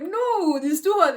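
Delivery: high, loud insistent no; loudly agree, pitch way up; emphatic agreement. Retold or imitated. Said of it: "They'll be like".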